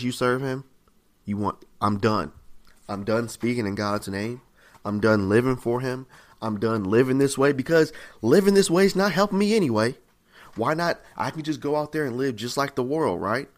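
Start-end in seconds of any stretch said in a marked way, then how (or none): 1.8-13.2 mildly defiant, building from restrained to insistent; fed-up believer. Acted. Believer quitting living for God, increasingly fed up. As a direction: voice giving up, growing more emphatic. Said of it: "You ever feel like that before too".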